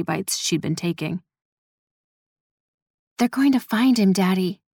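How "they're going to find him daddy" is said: put-on slightly raised, small girlish voice; small young voice. A narrator's reading. Daughter confiding in her father, small young voice. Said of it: "her voice smaller than her sixteen years".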